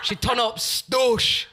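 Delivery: high, loud, slow laughing tease; teasing laugh. Real, not acted. Teasing her co-host about her outfit, laughing loudly. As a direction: drag out the tease through laughter. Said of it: "teasing co-host about her outfit".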